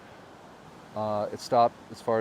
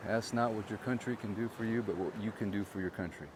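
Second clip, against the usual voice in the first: 1 quoting JFK; 8 dB quieter than usual. Retold or imitated. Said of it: "Was it J F K?".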